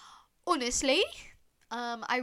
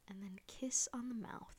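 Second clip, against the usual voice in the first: whispered like a cheeky tease; mock sultry whisper; 7 dB quieter than usual. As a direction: hush it as a playful come-on. Teasing intimate goodbye.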